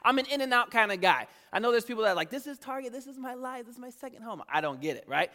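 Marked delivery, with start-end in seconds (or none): 2.3-4.4 mock Target devotee. Imitates devoted Target shoppers.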